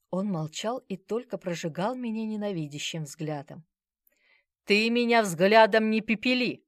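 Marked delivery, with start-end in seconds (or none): 4.6-6.6 loud menacing sneer; menacing smirk. A narrator's reading. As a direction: threaten with a nasty grin. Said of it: "нехорошо усмехнулась я". (угрожающая усмешка, громко)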